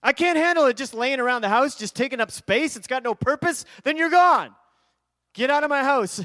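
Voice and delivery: loud mock-angry banishing of clutter; exasperated rant. Retold rant at the unused toy.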